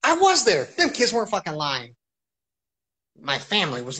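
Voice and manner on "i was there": stunned surprise. Retold or imitated. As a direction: realize it suddenly, stunned. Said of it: "I'm like".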